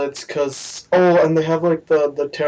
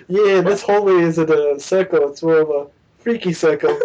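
a hint of put-on New Zealand accent; Korg. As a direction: do a laid-back tour guide impression. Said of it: "I can do a pretty good Korg".

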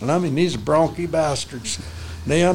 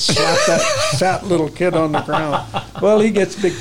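laughing; 3 semitones higher, 3 dB louder than usual. Real, not acted. Laughing at the fall.

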